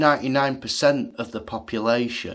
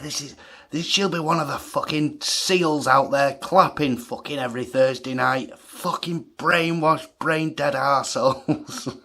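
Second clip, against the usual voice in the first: retold ranting shout; 4 semitones higher than usual. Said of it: "I'm shouting at these lads now".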